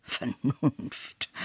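drawn-out scornful word, rising; mocking, questioning lift at the end; sneering. A narrator's reading. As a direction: stretch it out with derision. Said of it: "höhnte der Herr".

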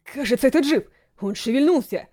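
alarmed soldier's cry; shouting. Acted. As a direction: call it out in alarm. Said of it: "закричал второй".

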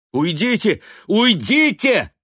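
high, loud desperate outcry; ashamed angry cry. A narrator's reading. Son shouting at mother to leave. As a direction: drive her away in shame and rage. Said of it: "восклицал он вне себя от стыда и гнева".

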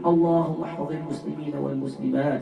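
impassioned loud prayer. Real, not acted. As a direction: cry out each plea with mounting fervour. Climax of fervent supplication. (دعاء بصوت عالٍ يتصاعد حتى الصراخ)

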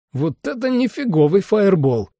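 high-pitched, excited outburst; impressed exclamation. Acted. Lee marvels at the explosion, excited and high.

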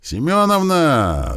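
high, long drawn-out call across a field; shouted name. A narrator's reading. Puny man calling to the woman he runs toward. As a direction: call her name from far off, slowly. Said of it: "закричал тщедушный мужичок".

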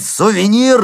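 shout. A narrator's reading. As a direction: shout his name to stop him. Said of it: "закричал я".

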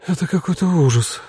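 dismayed exclamation; exhaled dismay. A narrator's reading. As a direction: breathe it out, overwhelmed. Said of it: "выдохнула Мила".

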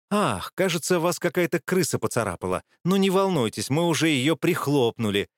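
barely contained anger, hissed; hissing with held-back anger. Acted. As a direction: hiss it through restrained fury. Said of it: "еле сдерживая гнев, прошипела Вильна".

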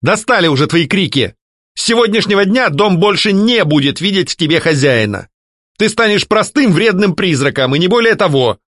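firm anger. A narrator's reading. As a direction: lay down the law.

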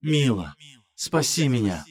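muffled drifting fog spirit. Acted. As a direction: breathe it from far within the fog. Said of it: "Голос из тумана снова прошептал".

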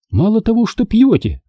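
mock-horrified, pitched high; affected mock dismay; mannered horror. A narrator's reading. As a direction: feign shock with affected flair. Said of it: "манерно ужаснулась".

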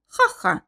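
high, mocking ha-ha; mocking laugh. A narrator's reading. Heroine laughs at Mark in the pharmacy, high mocking laugh. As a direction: laugh in his face. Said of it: "разбушевалась я".

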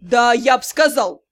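a loud yell. Acted. Drow yells at Dei, loud. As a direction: shout it at her. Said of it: "заорал Дроу".

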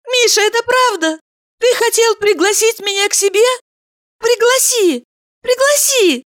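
high delighted woman's voice. A narrator's reading. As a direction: Valeria overjoyed. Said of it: "закричала она".

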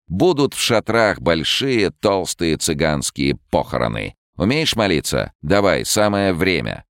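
high taunting gypsy voice; fortune teller. Acted. Gypsy queen Rona taunts.

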